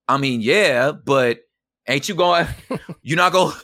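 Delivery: high, loud disbelief rushing out; incredulous protest. Retold or imitated. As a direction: push back at a dad who won't apologize. Retold reply to volatile dad.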